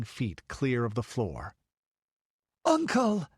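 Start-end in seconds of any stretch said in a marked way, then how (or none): 2.6-3.3 high, loud cry of alarm; desperate high-pitched scream; horrified shriek. A narrator's reading. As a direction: shriek out to stop him. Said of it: "shrieked Balessa".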